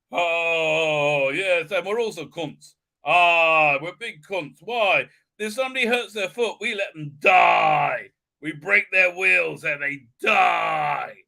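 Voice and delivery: hammed-up Irish accent with long, drawn-out DIE; mock Irish accent, wailing the punch words; cod Irish accent. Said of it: "an Irish accent that embarrassing, that cod".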